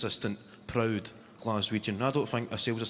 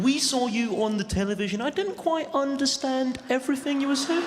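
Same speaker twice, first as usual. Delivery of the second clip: high, prim southern English voice; mock a posh Leamington Spa visitor; plummy English accent, higher; 12 semitones higher than usual. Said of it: "somebody from Leamington Spa saying".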